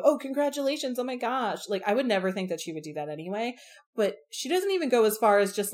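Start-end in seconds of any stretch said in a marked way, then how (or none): 0.1-1.7 gushing congratulations. Retold or imitated. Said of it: "she doesn't go".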